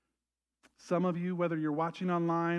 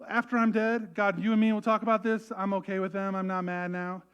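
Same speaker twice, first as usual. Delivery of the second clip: mock bargaining; 3 semitones higher, 5 dB louder than usual. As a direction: play a grudging bargain. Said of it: "He didn't even go like".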